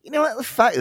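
lightly voiced brother cutting in; a hint of the brother's excited tone. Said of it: "Bill would be like".

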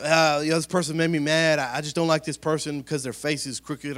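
mock gossip. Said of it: "They're like".

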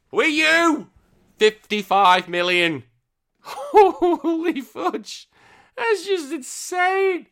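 high, loud, drawn-out astonishment; amazed disbelief. Real, not acted. Host reading Mario Kart sales, loudly astonished. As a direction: marvel slowly at a huge number.

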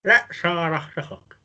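talking around a mouthguard; words mushed by a mouthguard; wearing a mouthguard. Real, not acted. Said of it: "whoever's reading their saying needs to put the mouth guard in".

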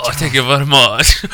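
lightly voiced impression of a singer. Co-host repeating his impression for laughs, lightly voiced. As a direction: toss off the singer's catchphrase. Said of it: "What was that Elvis thing?".

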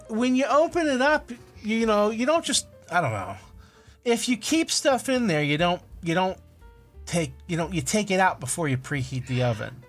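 ordinary delivery

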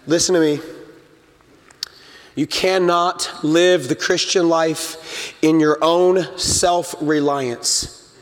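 normal talking voice

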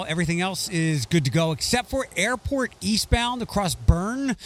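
brisk, projected traffic-reporter read; polished on-air traffic bulletin; radio traffic report. Real, not acted. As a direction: deliver a local radio traffic update.

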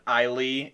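Islay said as EYE-lee; wrong pronunciation. Shown as a demonstration. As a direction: say Islay ending in a long EE. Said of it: "pronounced it Islay".

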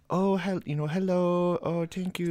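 high, put-on East Asian accent. Imitating the lady at the register, heavy East Asian accent. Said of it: "East Asian accent".

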